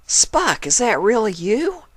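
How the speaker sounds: high, loud startled question; shocked Applejack. A narrator's reading. Applejack realising it's Spike, high and shocked. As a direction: gasp it out in disbelief.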